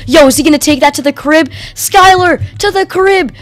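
root the runner all the way home; thrilled high-pitched calling; excited hype. Real, not acted. Hyping teammate's interception return.

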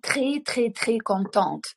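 "très" said with a French throaty r; très drill. Shown as a demonstration. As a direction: model "très" with a clear uvular r. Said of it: "Тренуйте звуки". (вимова «très» з французьким «р»)

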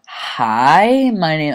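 lightly voiced snooty girl; a hint of a stuck-up classmate; mock valley-girl hello; imitating a classmate. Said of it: "she talks like this".

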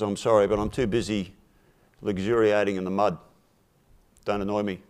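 a hint of a pig lolling in mud; mild mock brush-off; lazy dismissive pig. Pig lazily refuses the mice.

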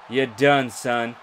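loud gloating finish; gloating taunt. Real, not acted. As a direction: rub the win in. Taunting the beaten opponent.

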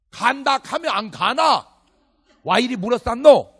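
annoyed Gyeongsang local shouting at a pushy evangelist; gruff Gyeongsang dialect. Retold or imitated. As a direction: bark it back in thick Gyeongsang dialect. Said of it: "그게 경상도예요".

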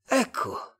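very high alien voice; otherworldly, pitched far up; Martian. A narrator's reading. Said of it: "disse il marziano in inglese".

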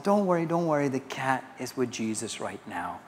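soft, soothing mother; hushed retold reassurance, sinking at the end; reassuring mom. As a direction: gently imitate a mother comforting her child. Mother comforting her child in story.

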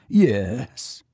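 a touch of tremble in the voice; quivering. A narrator's reading. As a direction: answer shakily, as if barely holding up. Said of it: "said Biggs in a quivering voice".

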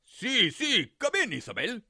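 lightly voiced disguised coyote; the wolf pretending to be granny; mild fake granny; coyote faking grandma.

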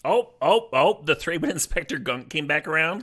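loud, high, thrilled outburst; excited shout. Real, not acted. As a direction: yell with delight at the pull. Opening pack, big pull.

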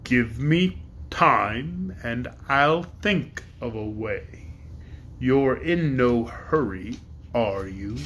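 great dragon passing judgement on Woot. Acted. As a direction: weigh each word like a ponderous beast.

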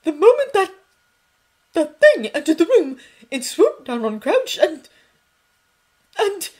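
distraught shout. A narrator's reading. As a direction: drown him out, appalled. McGonagall raising voice, upset.

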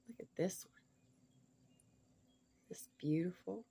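breathy hushed whisper to the camera. Real, not acted. Showing viewers a stone, whispering in awe.

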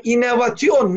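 "inovasyon" sounded out as in-no-va-ti-on; read as spelled. Shown as a demonstration. Speaker asking how it is written, "inovasyon" as in-no-va-ti-on. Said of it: "nasıl yazıyor".

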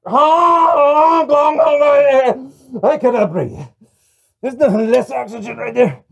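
high, loud honking clown; silly clown. Acted. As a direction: honk like a breathless clown.

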